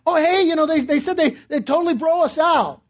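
naive, eager reporting to the boss; excited. Retold or imitated. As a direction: pass on good news eagerly, mildly acted. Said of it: "So I'm excited".

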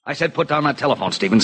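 insist, pitch climbing on the order; insistent order. Acted. Gunman orders Stevens off the phone, insistent.

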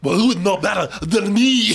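hammed-up heavy Schwarzenegger accent. Host replaying the disguised dad's giveaway line, Schwarzenegger accent. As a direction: parody the thick Schwarzenegger accent. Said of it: "that heavy ass accent".

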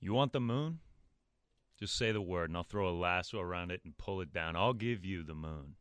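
smooth, soothing reading of a film line; soothing movie-line read. Acted. Announcer reading a movie line for a quiz, soothing. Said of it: "His voice is so soothing".

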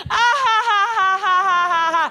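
loud, high hammed-up ha ha ha; fake laugh. Comedian faking a high loud laugh at Germany's wisdom. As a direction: force out a mock laugh at the crowd.

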